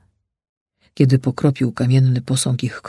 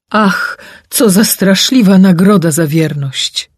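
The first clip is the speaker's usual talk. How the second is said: higher, louder anguished cry; king's exclamation; 6 semitones higher, 6 dB louder than usual. Acted. King laments the stone statue, crying out. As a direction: exclaim it in grief. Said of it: "wykrzyknął król".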